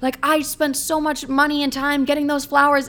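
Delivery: mock whine of a date begging to come up; whiny begging. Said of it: "He was like".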